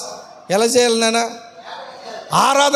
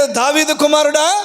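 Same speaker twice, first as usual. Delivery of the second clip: crying out. Shown as a demonstration. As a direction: cry it out for mercy. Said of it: "కరుణించేటట్టు అరవరు చూడండి".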